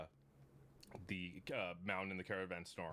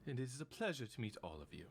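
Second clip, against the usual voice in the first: whispered greeting. Acted. Gemini bowing to the party, whispered. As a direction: whisper it with a bow. NPC introduces himself with a bow.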